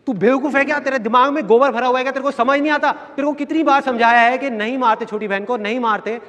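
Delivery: angry father scolding. Retold or imitated.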